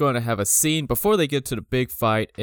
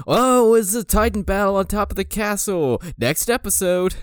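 mock trailer voice; 9 semitones higher than usual. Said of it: "end with".

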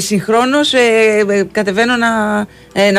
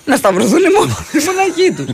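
laughing; 10 semitones higher than usual. Real, not acted. Laughs through her own words.

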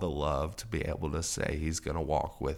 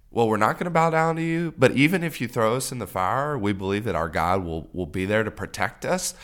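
much higher and louder, fast defiant cry; defiant reply; 3 semitones higher, 7 dB louder than usual. Retold or imitated. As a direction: shout your faith back at the king. Defiant answer to the king.

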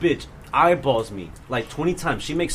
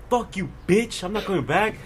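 higher-pitched retold comeback; defiant retort; 6 semitones higher than usual. Student to staffer while leaving, retold defiance. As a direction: throw it back over your shoulder, lightly acted.

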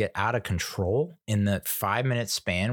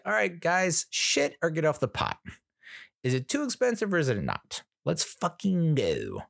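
mock exasperation; 7 semitones higher than usual. Waiting customer urging hagglers to decide, in high mock exasperation. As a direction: plead higher, stretching the final "go".

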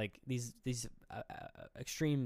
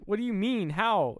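high, louder disbelief; shocked questioning; 8 semitones higher, 5 dB louder than usual. Retold or imitated. Imitating son questioning his mother, shocked high voice. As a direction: demand an answer, pitched right up.

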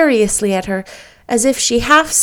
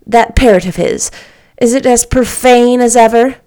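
louder lady question; 2 semitones higher, 6 dB louder than usual. Acted. Lady asks.

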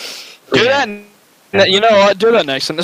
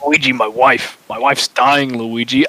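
lower, pleading plumber voice; mock tragic Luigi; 5 semitones lower than usual. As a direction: grieve like a hammy soap actor. Mario brothers melodrama skit.

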